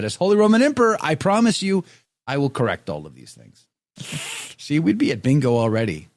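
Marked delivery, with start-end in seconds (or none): 0.0-3.7 high, quick mock-imperial vow; mock proclamation. Host vows spelling reform as emperor, mock proclamation. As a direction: declare it with playful self-importance.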